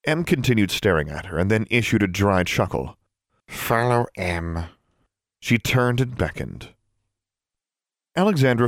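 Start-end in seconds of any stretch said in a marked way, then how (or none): 3.5-4.7 slow elf voice; house elf voice. Acted.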